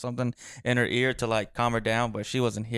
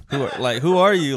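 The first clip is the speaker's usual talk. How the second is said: imitated bouncer, raised voice on "who are you"; retold loud challenge; 3 semitones higher, 7 dB louder than usual. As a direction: challenge him like a doubting bouncer. Bouncer challenge repeated more forcefully.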